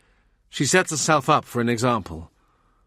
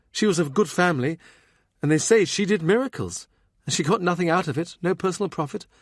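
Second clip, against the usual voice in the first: put-on higher, earnest young woman's voice; 7 semitones higher than usual. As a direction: tell it eagerly in a lighter voice. Meg tells of the maid.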